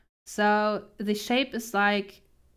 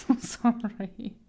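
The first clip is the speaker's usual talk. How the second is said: giggling apology. Real, not acted. Laughing apology.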